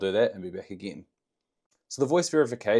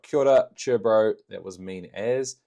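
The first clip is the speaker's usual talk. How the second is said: Kiwi slang; 2 semitones higher, 5 dB louder than usual. Shown as a demonstration. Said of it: "put some kind of Kiwi slang in here".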